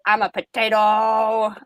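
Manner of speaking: slow, stretched-out mock announcement; retold goofy comeback, said slowly; drawn-out silly declaration. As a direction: draw out the last word as a silly comeback.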